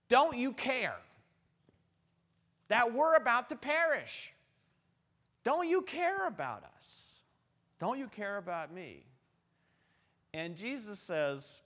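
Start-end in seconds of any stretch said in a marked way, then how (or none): 0.1-9.0 high, loud, desperate cry for help; frantic high-pitched begging, voice rising to a wail; panicked disciples pleading. Acted. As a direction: plead like you're about to drown. Terrified disciples wake Jesus.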